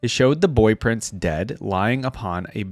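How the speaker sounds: measured storyteller read of a legend; story narration. A narrator's reading. Reading a Shurima legend aloud to his viewers, story narration.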